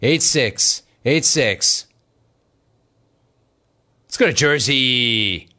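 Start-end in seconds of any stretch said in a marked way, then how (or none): 0.0-1.9 announcer number read. Acted. Reads the phone number slowly.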